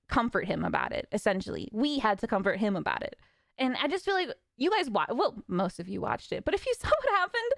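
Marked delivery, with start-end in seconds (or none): 1.7-3.1 emphasis on "We", the rest dropping; stress on WE. Real, not acted. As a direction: hit "We" hard, then fall away low. Repeats it, stressing who comforted whom.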